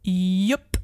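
drawn-out, self-satisfied confirmation; grinning reply. A narrator's reading. Rat confirming the victory, grinning. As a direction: say it through a grin. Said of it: "grinste Rudi".

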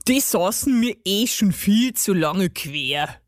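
put-on grumbling gnome voice; relieved gnome. A narrator's reading. Gnome is rid of the buttons, relieved grumble.

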